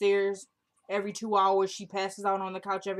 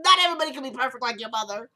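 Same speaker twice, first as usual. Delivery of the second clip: quoting through laughter, louder; laughing disbelief; 3 semitones higher, 5 dB louder, faster than usual. Real, not acted. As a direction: repeat it while cracking up. Repeats the line while laughing.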